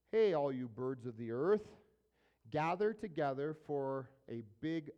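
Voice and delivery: calling out to a crowd, moderately loud; lightly acted angel's loud summons; mild loud cry. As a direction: raise the voice like a herald summoning everyone. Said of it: "He cried with a loud voice".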